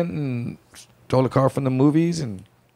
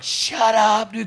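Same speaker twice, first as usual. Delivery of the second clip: much higher, louder snap; sharp shut up; 10 semitones higher, 3 dB louder, much slower than usual. Retold or imitated. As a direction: cut off the panicking friend. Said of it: "and I'm like".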